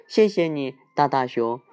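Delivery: lightly voiced grateful cub; a hint of a small cub; little bear voice. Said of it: "小小熊说".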